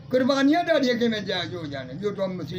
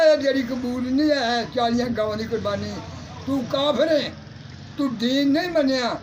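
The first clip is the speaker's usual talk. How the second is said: divine rebuke; 2 semitones higher than usual. Retold or imitated. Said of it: "ਤਾਂ ਅੱਲਾ ਨੇ ਕਿਹਾ".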